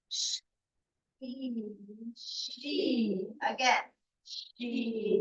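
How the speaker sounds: put-on teacher modelling the word "She" for kids; soft, careful "She" for children to echo; sounding out. Shown as a demonstration. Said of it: "so it's gonna go like this".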